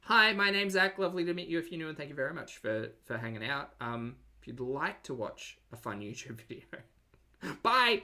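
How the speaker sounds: hammed-up YouTuber hello and bye; mock streamer intro.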